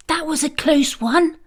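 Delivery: usual speaking voice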